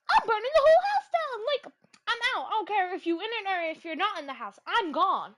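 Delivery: high and loud, frantic; panicked declaration. Real, not acted. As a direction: swear you're getting out. Panicked vow about doll.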